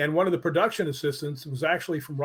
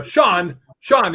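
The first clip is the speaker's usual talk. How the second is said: louder calls, rising higher on the second; calling out; 4 semitones higher, 6 dB louder than usual. Retold or imitated. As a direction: call across the set to stop him mid-sentence. Calling Sean over.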